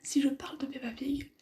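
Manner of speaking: steady morning whisper. Real, not acted. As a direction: keep whispering the commentary. Held whisper.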